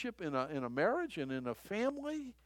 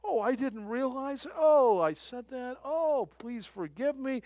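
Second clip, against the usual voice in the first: repentant offender; 7 semitones higher, 4 dB louder than usual. Retold or imitated. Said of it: "when they repent".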